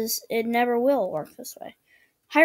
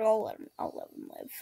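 imitating him; 10 dB quieter, faster than usual. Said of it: "He was like".

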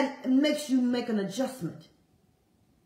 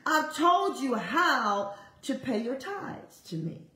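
slow divine voice; slower than usual. Retold or imitated. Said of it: "I hear Abba telling me".

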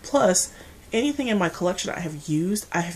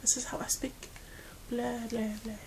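very soft, half-whispered imitation; imitating friend's protest; 4 semitones higher, 11 dB quieter than usual. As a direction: murmur it as a friend's mild objection. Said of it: "She's probably going".

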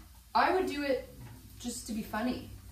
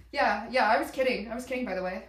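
backpedaling; 6 dB louder, faster than usual. Retold or imitated. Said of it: "you say".

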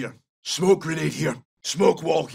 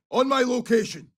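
higher-pitched squad callout; urgent rallying call; 6 semitones higher than usual. Acted. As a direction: call them over with raised pitch. Two takes of squad callout.

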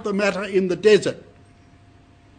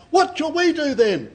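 higher, slower call from the crowd; 9 semitones higher, 5 dB louder than usual. Acted. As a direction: cry out the question up to the prophet. Crowd calls out to John.

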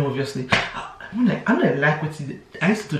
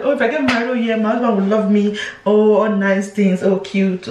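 naive daydreaming; 3 semitones higher than usual. Retold or imitated. Mimics her naive pre-wedding expectations.

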